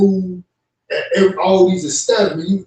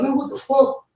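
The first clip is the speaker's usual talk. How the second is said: mock disbelief; 8 semitones higher than usual. Retelling his reaction to staff, mock shocked. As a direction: pitch jumps way up on a stunned question. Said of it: "I'm like".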